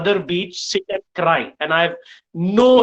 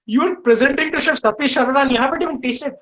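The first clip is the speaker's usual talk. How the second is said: raised, scolding voice, retelling an angry chef; half-acted telling-off, higher pitch; angry outburst; 5 semitones higher than usual. Chef scolding a student who skipped tasting, mock angry. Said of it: "and he loses it".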